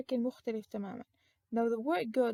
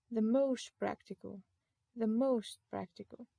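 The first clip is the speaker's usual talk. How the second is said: slow model reading; slower than usual. Shown as a demonstration. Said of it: "we say".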